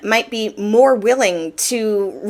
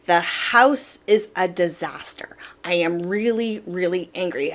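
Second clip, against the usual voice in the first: seething whisper; 3 semitones lower, 3 dB quieter than usual. Retold or imitated. Coming home to a messy house, whispered fury. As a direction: whisper it like anger about to blow.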